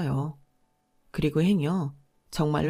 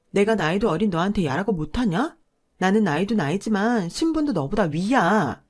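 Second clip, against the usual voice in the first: jabbing, scolding sister-in-law. Acted. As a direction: point your finger and lord it over her. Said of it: "삿대질을 하며 이러더군요".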